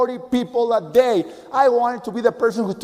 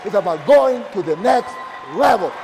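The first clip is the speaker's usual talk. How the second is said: rousing shout; 3 semitones higher than usual. Real, not acted. Rousing close to the audience.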